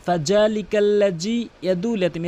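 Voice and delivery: "ফাযালিকাল্লাযী" with hard j for both dhals; "ইয়াদুল" as a smooth long u, no ayn; common mispronunciation. Shown as a demonstration. Teacher shows how people misrecite, hard j. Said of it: "কখনো এভাবে করবেন না".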